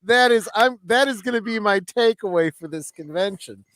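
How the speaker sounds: big stretched-out burst of delight, voice way up; delighted reaction. Retold or imitated. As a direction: gush like a thrilled celebrity, imitated. Retelling actor's delighted reaction.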